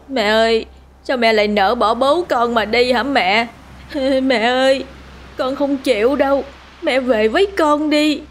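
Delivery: high, rising wail of grief; wailing son. A narrator's reading. Son wailing over his mother's corpse, high. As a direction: cry out for his mother, pitch climbing. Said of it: "Tiếng khóc của nó vang vọng, não nề".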